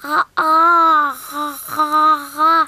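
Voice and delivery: talking with mouth wide open. Acted. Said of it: "C'est très difficile de parler avec la bouche grande ouverte".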